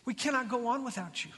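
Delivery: hushed acted entreaty; interceding plea. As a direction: plead gently, imitating a humble intercessor. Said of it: "Moses intercedes".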